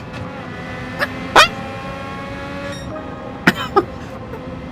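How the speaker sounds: high airy giddy laugh; breathless laugh. Real, not acted. Streamer reacting to his race result, breathless giggle.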